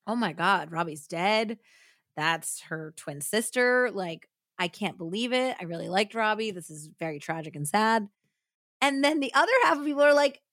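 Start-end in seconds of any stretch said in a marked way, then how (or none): 0.1-8.1 credulous mourning. Retold or imitated. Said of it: "totally face value".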